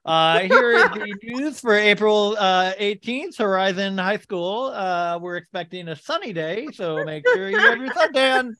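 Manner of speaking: drawn-out morning announcements voice; hammed-up school news read; school announcer. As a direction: read it like a student on the PA, slowly. Acts out his school announcements.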